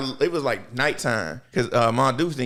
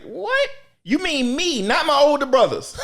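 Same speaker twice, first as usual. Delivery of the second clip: high, disbelieving squeak; retold shocked protest; incredulous; 14 semitones higher, 4 dB louder than usual. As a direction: act stunned, pitched way up.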